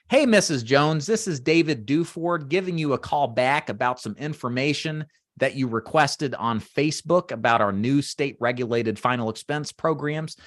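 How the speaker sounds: measured, deliberate phone pitch; clearly articulated, unhurried sales call; emphasizing each word. Shown as a demonstration. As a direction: give every word and syllable its own weight. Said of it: "notice how I'm emphasizing each word".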